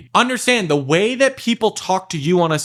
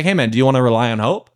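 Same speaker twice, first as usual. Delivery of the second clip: teasing challenge; 2 semitones lower, faster than usual. Shown as a demonstration. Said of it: "We'll say".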